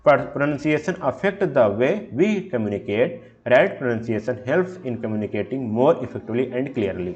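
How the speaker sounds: reading the slide slowly and deliberately; slow, careful slide reading; slow read-aloud. Shown as a demonstration. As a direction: dictate each word of the definition.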